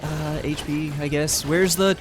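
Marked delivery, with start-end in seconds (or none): 1.4-2.0 high, loud, drawn-out plea; exasperated shout. Real, not acted. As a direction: wail the question in frustration. Desperate about exit.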